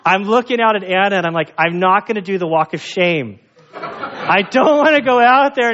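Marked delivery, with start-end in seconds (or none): 1.6-5.7 retold shame, laughing; laughing embarrassment. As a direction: laugh at his own embarrassment. Ashamed in store, laughing.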